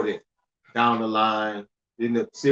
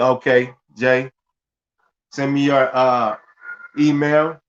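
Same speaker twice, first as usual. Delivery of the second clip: louder, eager call-out of the chat message; reading out Jay's request; 4 dB louder, slower than usual. Retold or imitated. Host reads a viewer's chat message aloud, louder. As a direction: announce Jay's ask with a lift. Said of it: "Jay said".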